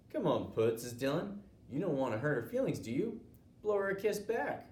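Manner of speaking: loud, high jeering taunt; goading bully. Acted. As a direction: egg him on in front of everyone. Bully goading boy publicly.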